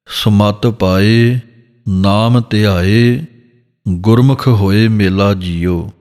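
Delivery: slow, measured gurbani reading; scripture recitation. Shown as a demonstration. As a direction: recite it slowly like a kirtan line.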